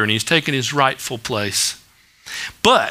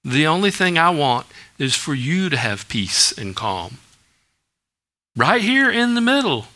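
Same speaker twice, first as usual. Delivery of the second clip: lower, unhurried comforting voice; quiet, steady comfort; calm reassurance; 4 semitones lower, 3 dB quieter than usual. Acted. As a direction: settle a worried listener, gently. Jesus voiced calming the worried.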